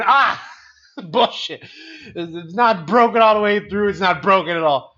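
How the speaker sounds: loud, high protest of denial; defiant outburst. Retold or imitated. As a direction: refuse to believe it, loudly. Defiant denial of broken ankle.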